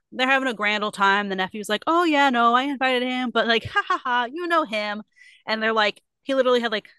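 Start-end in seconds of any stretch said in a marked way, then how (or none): 1.9-5.0 higher voice with acted ha-ha; mock jolly laughing. Nephew excuses absent uncle, hammed-up chuckle.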